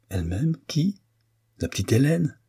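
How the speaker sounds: high incredulous rise on Hélène; can't believe what he hears; disbelieving surprise; astonished. A narrator's reading. Stunned by the news.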